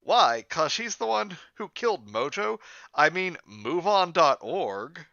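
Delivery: high-pitched, loud cartoon-girl voice; emphatic high girlish voice; Bubbles. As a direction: pitch it way up and swoop, stretching the last phrase.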